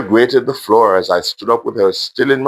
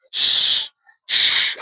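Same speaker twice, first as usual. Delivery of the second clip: gentle shushing. Acted. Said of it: "I said gently".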